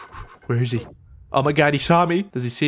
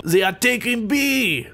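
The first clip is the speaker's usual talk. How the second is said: hint of a German accent, slow and higher; lightly put-on German, drawn out slowly; 5 semitones higher than usual. Gamer warning team, mock German accent. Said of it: "I'm talking like a German".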